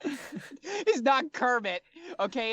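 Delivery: high, slow, offended frog voice; indignant frog interpreter. Acted. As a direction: correct them in a squeaky, put-out croak. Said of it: "very difficult for him to make that voice with his gripply vocal cords".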